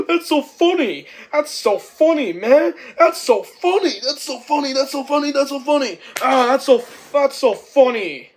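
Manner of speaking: high, loud, repeated squeals of amusement; real hilarity. Real, not acted. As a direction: crack up and keep shouting it. Cracking up at the film.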